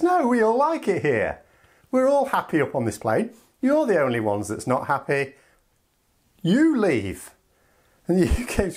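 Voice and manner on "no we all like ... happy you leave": fed-up firmness. Acted. EU firm, fed up.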